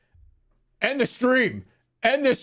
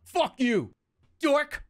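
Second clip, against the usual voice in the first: higher, softer repeated insults; quiet NPC insults; 3 semitones higher, 3 dB quieter than usual. Acted. Streamer reruns GTA NPC insults, higher and softer. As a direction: rattle off insults under the breath. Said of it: "this is what you like me to do".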